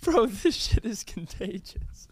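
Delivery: slow, laughing through the words; trying not to laugh. Real, not acted. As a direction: fight the giggles as you speak. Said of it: "I don't wanna laugh right now".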